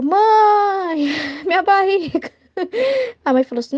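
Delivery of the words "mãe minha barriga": higher, drawn-out mock child's whine; put-on bellyache wail; whining child. Imitates pupil complaining of bellyache.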